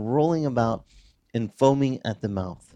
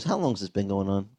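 calm; 5 semitones lower, 4 dB quieter, faster than usual. Pretend. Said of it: "He just goes".

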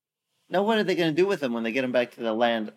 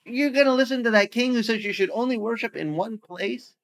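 a lightly voiced sneering bully, pitched up; mocking bully; 6 semitones higher than usual. Preacher voicing Assyrian bully mocking Judah, mild sneer. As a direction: sneer at their faith. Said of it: "This is the way a bully talks".

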